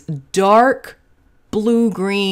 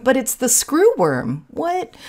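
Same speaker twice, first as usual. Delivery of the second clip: mock innocence; 6 semitones higher, slower than usual. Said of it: "because I'm a jerk".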